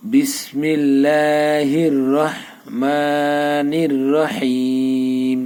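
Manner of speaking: slow melodic tajweed chant, long held vowels; Quran recitation. Shown as a demonstration. Teacher reciting the joined Fatiha words for students, slow and chanted. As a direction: recite it slowly, drawing each vowel out in a tune.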